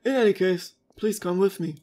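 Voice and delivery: measured, lightly theatrical character reading; formal read-aloud. Acted. Follower reassuring the Imperator about fate, formal. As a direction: address a ruler with courtly formality.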